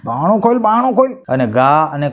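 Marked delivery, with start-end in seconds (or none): 0.1-0.6 high urgent call to open door. Acted. Teaser clip, banging door. 0.6-1.1 much higher, pleading call; urgent shout. Acted. Repeated more urgently.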